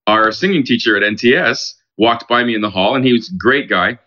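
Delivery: ordinary delivery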